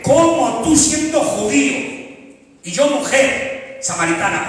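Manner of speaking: high, drawn-out astonished question; surprised woman. Acted. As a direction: ask it slowly, amazed. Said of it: "se sorprende al ver tanta grandeza".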